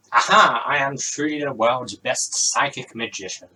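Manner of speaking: loud, crowing magician's triumph; triumphant boast. Acted. Magician boasts to Rosie after his guess, loud and triumphant. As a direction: crow it like a stage showman.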